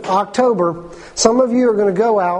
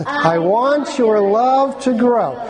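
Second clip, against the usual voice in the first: slow, slightly raised group recital; a little louder; slower than usual. Shown as a demonstration. Preacher leading the congregation, a little louder. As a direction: say it a bit louder, drawn out. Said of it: "Can we say it a little louder?".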